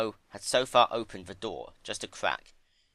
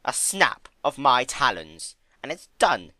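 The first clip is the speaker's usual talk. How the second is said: a grand, menacing Discord, higher and louder; 5 semitones higher, 7 dB louder than usual. Acted. Discord gloating to Fluttershy, grand and menacing. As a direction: savor the final threat.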